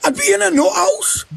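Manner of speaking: high, indignant yelling; outraged shout. Real, not acted. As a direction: shout it in disbelief. Outraged denial of cutting toes.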